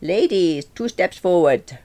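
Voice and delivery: shouted dance command; dance teacher's shout. A narrator's reading. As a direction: call out instructions, slow and high. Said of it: "when Franco shouted".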